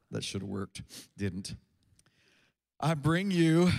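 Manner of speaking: reads the nativity story aloud; scripture reading. Acted. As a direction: proclaim the angel's news.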